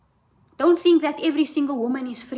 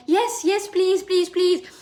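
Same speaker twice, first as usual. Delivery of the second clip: higher, eager begging voice; mocking a pick-me; 5 semitones higher, slower than usual. Mocking pick-me women to viewers, higher eager begging. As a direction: parody a desperate pick-me pleading. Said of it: "Acting like pick-me's".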